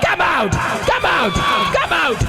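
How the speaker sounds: high, repeated deliverance shouts, falling at each end; exorcist's shouted command. Real, not acted. Preacher driving evil spirits out of women, shouted commands. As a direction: order the spirit out with full force.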